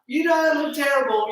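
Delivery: loud, high correction; emphatic reassurance. Acted. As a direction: set them straight, loud. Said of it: "reassuring correction".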